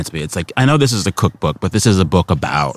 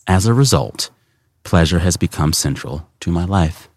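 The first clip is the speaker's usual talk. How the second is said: reading aloud. Acted. Host reading the author's own passage back to her, measured reading. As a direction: read it out with phrase-by-phrase pauses.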